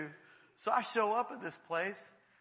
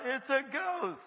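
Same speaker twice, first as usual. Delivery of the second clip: higher, mildly alarmed cry; fearful cry; 5 semitones higher, slower than usual. Acted. Disciples seeing Jesus on the water, fearful cry. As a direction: call it out in acted fear. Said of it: "in fear they cried out".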